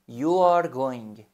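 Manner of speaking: very slow You are going, each word drawn out; slow teacher dictation; slow model sentence. Shown as a demonstration. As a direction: dictate slowly.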